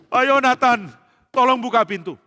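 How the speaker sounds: high, loud call at the door. Acted. Daud calling at his friend's door, urgent shout. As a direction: call out urgently for someone inside.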